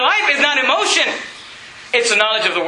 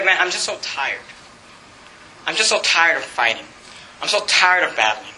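softer, lower, tired sigh of a voice; weary complaint; 8 semitones lower, 4 dB quieter than usual. Retold or imitated. Pastor voicing a worn-out believer, tired and soft. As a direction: sound worn out from fighting.

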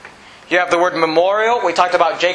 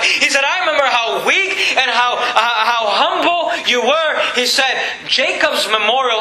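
raised-pitch sermon cadence; fervent preaching; 5 semitones higher than usual. Real, not acted. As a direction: preach it insistently, stretching the key words. Preaches in God's words.

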